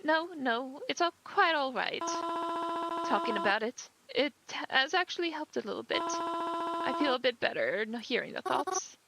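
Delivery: a mother startled at her daughter's funeral; grieving mother. Acted. Grieving mother greets a stranger at the funeral, gently.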